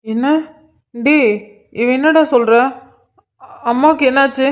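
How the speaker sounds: panicked, rising questions; alarmed questions. Acted. Son asks about his hurt mother, in rising alarm. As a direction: demand answers in alarm.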